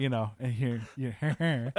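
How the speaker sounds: cracking up mid-sentence; laughter breaking through the words; trying not to laugh. Real, not acted. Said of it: "Sorry, I'm losing it right here".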